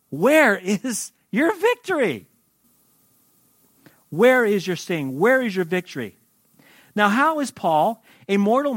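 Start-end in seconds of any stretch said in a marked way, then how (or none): 0.1-2.3 high, slow, drawn-out taunt. Acted. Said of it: "He's taunting it". 4.1-6.2 firm, challenging taunt. Acted. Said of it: "He's taunting it".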